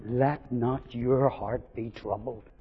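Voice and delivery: slow, soft, deliberate; slow and tender. Acted. Preacher giving the congregation the Lord's comfort, slow and soft. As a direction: lay each word down gently. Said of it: "what I believe the Lord wants you to get".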